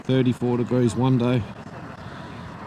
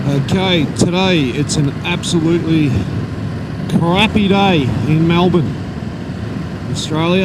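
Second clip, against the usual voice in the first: muffled under roaring wind; talking inside a motorcycle helmet. Real, not acted. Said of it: "I can hear a hell of a lot of wind noise in my helmet".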